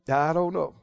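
low, soft mumbled reply; retold helpless answer. Minister giving his standard answer to problems, low and helpless. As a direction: drop the pitch and volume, mildly defeated.

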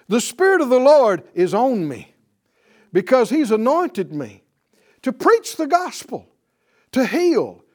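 loud, ringing pulpit proclamation; preacher thundering the Isaiah reading to the congregation; preaching at full force. Acted. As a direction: declaim the scripture like a revival preacher.

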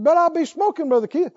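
high-pitched mock objection; imitated protest. Smoker objecting to Brother Keith's advice, imitated protest.

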